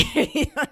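high, loud laughing fit; loud burst of giggles; real laughter. Real, not acted. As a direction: crack up at your own drama. Laughing at own panic.

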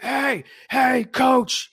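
high-pitched mock holler across a field; retold screaming. Angry parent calls out coach from the sideline, mock scream. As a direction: imitate someone hollering for attention. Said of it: "He comes screaming".

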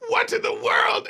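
high, breathy, half-whispered cry of disbelief; gasping at the chaos in the room; shocked outburst. Retold or imitated. Bellboy bursting in on the kids, a breathy high gasp.

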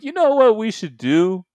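high conspiratorial mock voice; hammed-up schemer; scheming voice. Voicing USAPL scheming.

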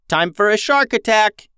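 excited high battle cry, shouted out; yelling. Acted. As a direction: yell it like a charge into battle. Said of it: "yelled Harvey".

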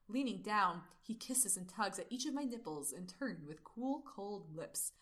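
slow breathy sultry reading; sultry narrator. Acted. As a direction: read it slow and seductive. Reads erotic novel passage aloud.

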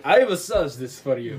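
bad mock French accent; badly faked French detective accent; Poirot. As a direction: attempt a French accent, clumsily. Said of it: "I'm not good at accents. That's gonna be Poirot".

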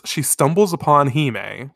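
ordinary talk

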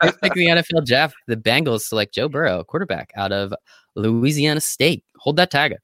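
formal draft announcement, laughing; draft announcer. Pretend. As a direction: announce the pick onstage. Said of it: "give me a second".

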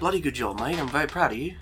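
proud Australian mate; hammed-up Aussie praise; Australian accent. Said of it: "Don't know why he's Australian now".

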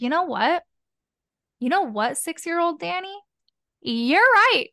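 building to a loud, high "You're right"; delighted agreement. Retold or imitated. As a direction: concede to the kid with growing glee. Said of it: "And I was like".

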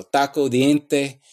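taco and diente with the tongue tip on the teeth; Spanish-style dental stops. Shown as a demonstration. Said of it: "it does that with the T".

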